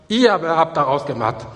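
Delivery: "ihr aber" punched at the front, then falling; stress on IHR ABER. Shown as a demonstration. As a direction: put the weight on "ihr aber". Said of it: "die Betonung liegt auf".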